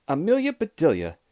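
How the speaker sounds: understated scolding shout; mild cross shout. A narrator's reading. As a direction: call the names sternly. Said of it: "shouted Missus Rogers".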